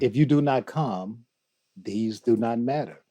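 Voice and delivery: poem recited in a measured, even voice; measured recitation. Acted. Guest recites Rumi to the hosts, measured recitation. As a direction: recite the verse evenly, in a measured way.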